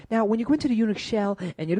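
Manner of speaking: put-on high, fast German-accented show-off; mock German accent. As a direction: rattle it off as a German know-it-all. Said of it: "must have been German".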